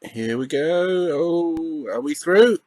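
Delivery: high voice building to a loud celebration; mounting excitement, bursting out on "Yes"; excited. Real, not acted. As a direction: follow the attack with rising hope, then cheer. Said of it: "I don't know why I'm sounding so excited".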